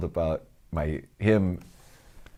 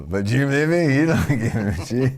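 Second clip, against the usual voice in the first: hammed-up Mexican accent, louder; terrible Mexican accent; 4 semitones higher, 3 dB louder than usual. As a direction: overdo a bad Mexican accent.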